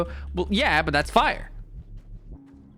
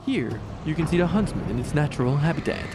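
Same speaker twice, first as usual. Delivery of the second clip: David Attenborough; 3 semitones lower, 3 dB quieter than usual. Pretend. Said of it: "Can we get David Attenborough to narrate it?".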